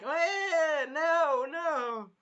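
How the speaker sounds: high, squeaky flustered no; flustered refusal. Acted. Risha refusing Melty, high and flustered.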